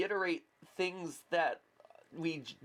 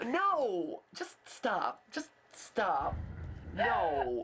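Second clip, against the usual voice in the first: laughing protest; 2 semitones higher, much slower than usual. Real, not acted. Scolding friend's joke, laughing.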